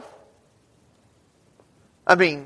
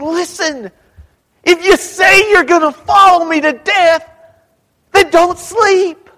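firm rebuke; 10 semitones higher, 3 dB louder than usual. Retold or imitated. Jesus rebuking his disciples.

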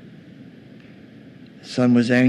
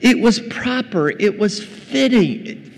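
insistent father; 7 semitones higher, slower than usual. Retold or imitated. Father justifies the feast.

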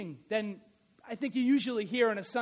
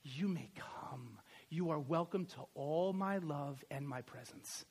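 soft, slow whispered 'You may come'; hushed whisper; 8 semitones lower, 12 dB quieter than usual. Shown as a demonstration. God's welcome to the forgiven sinner, whispered tenderly. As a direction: breathe it like a tender invitation. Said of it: "the verdict which spells justification will say".

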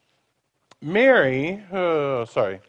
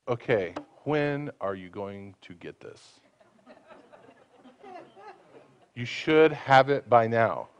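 impatient parent; 5 semitones lower, 6 dB quieter, slower than usual. Retold or imitated. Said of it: "with the attitude of".

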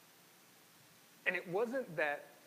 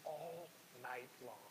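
weary wrestler pleading; 4 dB quieter than usual. Retold or imitated. The wrestler begging Jacob to let go, soft and worn out. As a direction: let it trail off, tired from a night of wrestling. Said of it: "is more of".

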